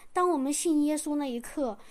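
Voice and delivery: ordinary talk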